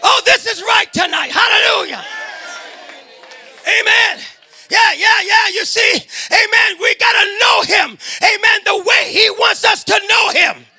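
full-voiced preaching, rising with fervour; fervent church sermon delivery. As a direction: preach it out to the congregation. Preacher exhorting the congregation.

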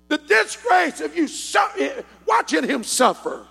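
slow, loud, high shout of disgrace; shouted rebuke. Retold or imitated. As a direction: thunder it out as the counselor. Preacher voicing counselor, rising.

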